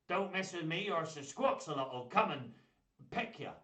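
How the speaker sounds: lightly voiced mock-gruff pirate warning; hint of a pirate puppet voice; pirate puppet threat. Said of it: "that's aggressive, isn't it?".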